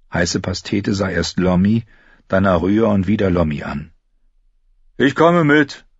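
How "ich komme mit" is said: high, reluctant character voice; grudging high-pitched consent. A narrator's reading. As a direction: agree against your will. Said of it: "sagte er widerwillig".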